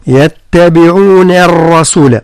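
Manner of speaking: يتبعون الرسول with a thin, light nun. Shown as a demonstration. Teacher showing a light nun. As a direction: keep the nun light before the ra. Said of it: "ثم ترقيق النون".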